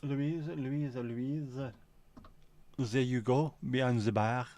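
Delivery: lightly put-on French accent, calling out "Louise"; a playful hint of a French accent, calling across the bar. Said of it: "speaking with a French accent".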